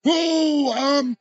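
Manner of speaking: high loud startled whoa trailing into um; overwhelmed whoa. Retold or imitated. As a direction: gasp out whoa as if knocked back. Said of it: "And I was like".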